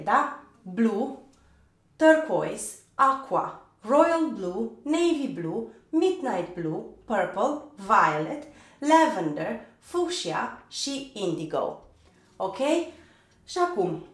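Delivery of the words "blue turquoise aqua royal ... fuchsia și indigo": word-by-word list for learners, swinging intonation; pronunciation drill. Shown as a demonstration. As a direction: recite each colour separately and clearly. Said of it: "hai să vedem ultima serie". (exercițiu de pronunție, cuvânt cu cuvânt)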